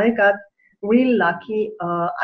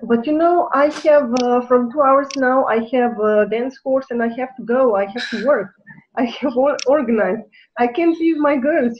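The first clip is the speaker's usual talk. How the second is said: higher, urgent pleading; higher, insistent pleading with the doctor about her dance class; anxious protest; 4 semitones higher than usual. Retold or imitated. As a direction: protest that the girls need her.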